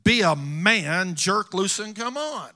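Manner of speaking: lightly voiced dad telling the boy to toughen up; stern father. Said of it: "tells me what his grandfather told him".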